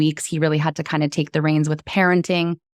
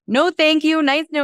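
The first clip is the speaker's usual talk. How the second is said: high, light mock brush-off; imagined rejection; 11 semitones higher than usual. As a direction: play the polite turn-down, high. Imagined rejection from new boyfriend.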